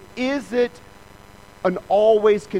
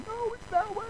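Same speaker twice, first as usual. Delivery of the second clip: Heidi correcting; 7 dB quieter than usual. Retold or imitated. Wife Heidi correcting his directions.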